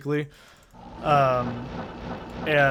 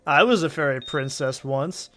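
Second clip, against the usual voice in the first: quoting the teacher; 3 semitones higher, 6 dB louder than usual. Retold or imitated. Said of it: "That also has a good opening".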